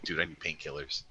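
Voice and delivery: quiet, low plea for pills; muted mock plea at a drug hut; hushed request. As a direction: ask the dealer low and discreet. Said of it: "I'm like".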